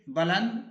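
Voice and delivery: बुलंद with a short a in the first syllable, balund; teacher repeats बुलंद as balund; correct pronunciation. Shown as a demonstration. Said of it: "बुलंद नहीं पढ़ेंगे". (बुलंद पहले हर्फ़ पर ज़बर के साथ)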